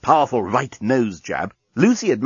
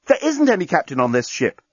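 higher-pitched call; calling after her; 7 semitones higher than usual. A narrator's reading. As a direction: call it after someone leaving. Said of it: "the journalist called after her".

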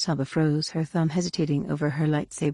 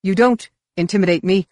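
loud defiance, slightly unsettled; mild nerves beneath bluster; tremor; 3 semitones higher, 6 dB louder than usual. A narrator's reading. Roel standing up to Mara, slight tremor. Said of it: "the tremor in his voice belied his words".

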